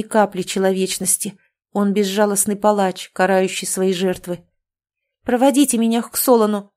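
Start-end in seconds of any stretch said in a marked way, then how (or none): 5.2-6.7 proud demand. Acted. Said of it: "потребовала я, гордо вскинув голову".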